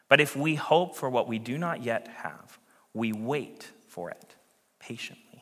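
measured, solemn reading of scripture. Acted.

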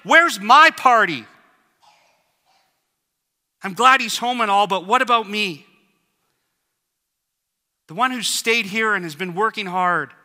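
put-on older brother complaining about the party; indignant older brother. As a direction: demand to know where his own party is. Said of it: "I could imagine the older brother saying".

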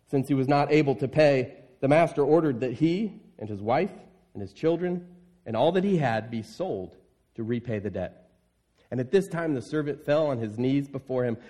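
measured Bible reading to the congregation; scripture reading. Acted. Pastor reading the parable to the church, measured scripture reading. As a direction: read the parable to them, steady and clear.

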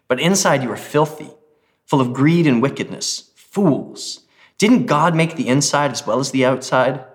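measured rebuke, key words lifted; emphatic scripture reading. Acted. Pastor reading Jesus' rebuke of the Pharisees, emphatic scripture reading.

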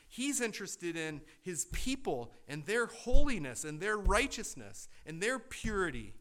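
loud, rising preacher's climax; preaching at full force. Real, not acted. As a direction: drive the point home to the congregation.

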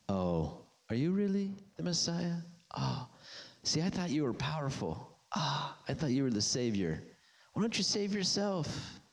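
a mild mock sneer. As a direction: tease him like the religious scoffers. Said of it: "Mocking, laughing".

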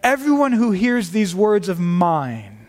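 "mine" at the end leaned on, said slowly; stress on mine. Shown as a demonstration. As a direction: read it slowly, pressing on "mine". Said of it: "this really could be read".

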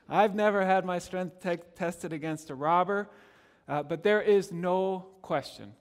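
ordinary delivery

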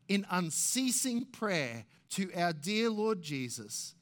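impassioned reading from the journal; dramatic journal reading. Acted. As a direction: read the missionary's words with fervour. Reading Paton's journal aloud.

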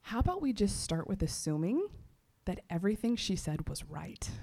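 understated tender coaxing; gentle, loving suggestion. Retold or imitated. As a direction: offer it lovingly, easing off at the end. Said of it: "lovingly looked at me".

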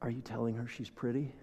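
imitating a little girl. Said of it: "the little pre-K girl says".

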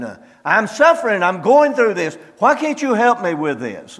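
high, half-shouted plea to God; shouting at God. Retold or imitated. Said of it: "you begin to shout at God".

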